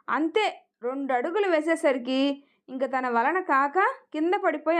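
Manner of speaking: ordinary delivery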